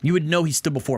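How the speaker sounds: mocking quote. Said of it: "what an overstatement".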